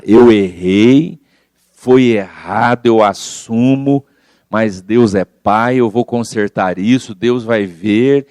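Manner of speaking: slow, steady, sincere admission; calm acceptance. Retold or imitated. Speaker acting out someone facing their mistake, slow calm acceptance. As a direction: own the mistake slowly, with calm resolve. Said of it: "Então é melhor a gente enfrentar".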